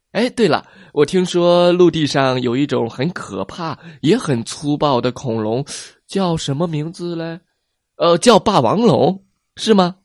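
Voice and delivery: high, bright questioning; innocent plesiosaur. Acted. Plesiosaur unknowingly asking T-rex about tyrannosaurs. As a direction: ask innocently, unaware.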